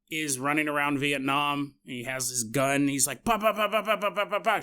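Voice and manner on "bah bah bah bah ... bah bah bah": gunfire noises. Retold or imitated.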